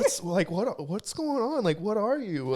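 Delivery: a hint of a bewildered child questioning dad; confused child. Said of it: "My kids are, like, looking at me".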